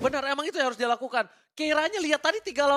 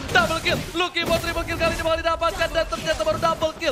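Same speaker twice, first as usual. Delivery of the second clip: hyped kill call, louder; fighting game announcer; 5 semitones higher, 3 dB louder than usual. Acted. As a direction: call the multikill like an arena announcer. Live hype play-by-play.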